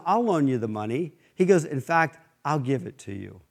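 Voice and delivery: softly voiced kind offer; gentle kind offer. Bull quietly offers Flo the money, soft and kind. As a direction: offer it gently, almost under your breath.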